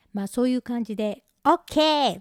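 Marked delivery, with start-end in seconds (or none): 1.5-2.2 higher, eager acted OK; bright-eyed eager waitress reply; beaming reply. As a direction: answer with a huge smile. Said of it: "満面の笑みで返事して".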